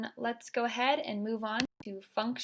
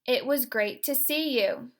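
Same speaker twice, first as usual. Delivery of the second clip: intense delivery; 2 semitones higher, 4 dB louder than usual. Shown as a demonstration. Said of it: "The first phrase will sound like this".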